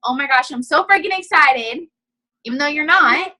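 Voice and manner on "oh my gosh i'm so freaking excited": gushing, with a rise on "freaking"; mock excited post. Shown as a demonstration. Showing her team a hyped status, mock excited. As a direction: play up fake excitement for the post. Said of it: "being all excited".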